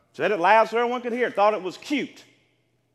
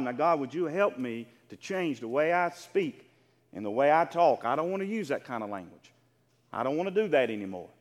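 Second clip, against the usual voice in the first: quiet prayer; 9 semitones lower than usual. Pretend. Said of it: "ask God".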